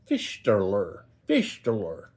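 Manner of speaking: "Fistular" with sh and final r, FISH-ter-ler; trial pronunciation. Shown as a demonstration. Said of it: "however you say it".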